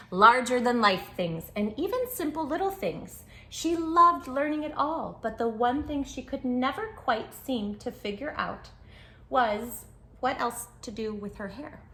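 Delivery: lively storybook narration for little listeners; reading to children. Acted. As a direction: tell it like a bedtime picture book. Reads picture book aloud.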